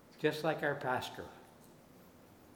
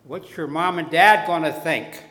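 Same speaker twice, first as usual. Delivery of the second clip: nagging doubt; 4 semitones higher, 10 dB louder than usual. Retold or imitated. Voice of doubt on shoulder.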